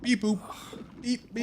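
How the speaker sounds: high beeping robot noises; toy robot voice. Pretend. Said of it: "Yes, I am a robot".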